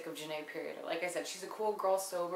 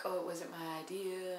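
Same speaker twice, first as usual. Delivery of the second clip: mock innocent; 4 dB quieter than usual. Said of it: "Shannon comes out of nowhere like".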